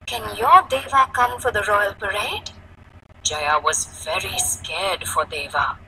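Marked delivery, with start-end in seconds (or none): 0.1-2.5 higher-pitched cheerful request; happy voice. Acted. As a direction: ask a child brightly and invitingly. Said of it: "in a happy voice to Jaya".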